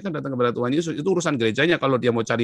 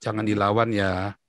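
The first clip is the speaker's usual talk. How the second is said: slow, lower fatherly counsel; father's calm advice; 4 semitones lower, slower than usual. Retold or imitated. Father telling his bullied child, calm and slow. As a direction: voice a patient father, unhurried. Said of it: "ayah saya selalu bilang apa?".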